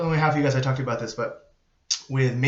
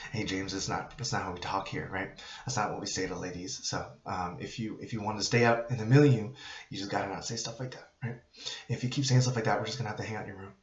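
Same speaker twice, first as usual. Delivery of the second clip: calm redirection; 2 semitones lower than usual. Shown as a demonstration. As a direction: set a limit calmly, without raising your voice.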